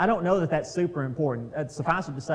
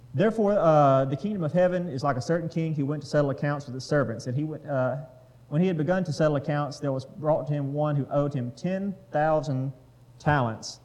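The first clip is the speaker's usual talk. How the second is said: louder, steady Bible reading voice; scripture reading; 4 dB louder than usual. Acted. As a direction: read the passage out to the group. Reads the parable aloud.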